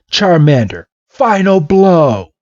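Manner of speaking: high, drawn-out finishing order; acted dramatic command, stretched slow; battle command. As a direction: call out the last strike. Blue orders the finishing attack.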